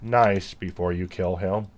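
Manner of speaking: slow, flat robot voice. Pretend. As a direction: speak like an old speech synthesizer. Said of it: "That's my robot voice".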